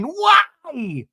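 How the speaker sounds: high mock wail in a put-on voice; hammed-up hurt why; whiny why. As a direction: whine it like a snubbed guest. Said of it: "clip of them going".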